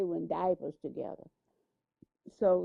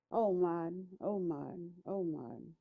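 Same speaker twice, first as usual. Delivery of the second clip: softer and softer with each call; grieving lament fading; 4 dB quieter than usual. Retold or imitated. Ralph holding dying Martin, lament fading to softer. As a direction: let the grief drain the voice away.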